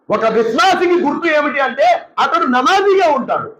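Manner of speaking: ordinary talk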